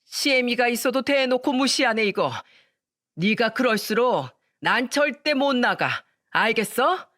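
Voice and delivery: lightly hammed-up yelling mother-in-law; shouting mother-in-law. Mother-in-law bursting in on the couple, mock shouting. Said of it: "소리쳤습니다".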